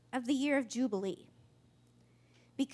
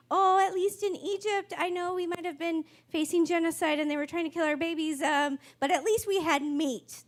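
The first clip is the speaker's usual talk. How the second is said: imitating complainers, pitched up at first; mock whining; 4 semitones higher, 4 dB louder than usual. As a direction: whine it with mock grievance. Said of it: "They whine in the wilderness".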